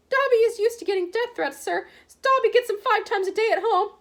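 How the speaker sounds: high, squeaky, resigned elf voice; meek house elf. A narrator's reading. House elf answering Harry's threat, squeaky and meek. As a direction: shrug off the threat weakly.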